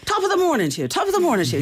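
high, jokey Boris playing to the crowd; hammed-up Boris greeting. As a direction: imitate Boris hamming it up for the Irish crowd. Boris greeting Irish crowd, mimicked.

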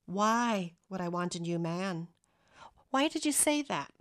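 puzzled question, voice lifting on the second one; a touch of bewilderment in a quoted reply; slightly bewildered. Retold or imitated. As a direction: read her reply as mildly baffled. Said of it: "slightly bewildered".

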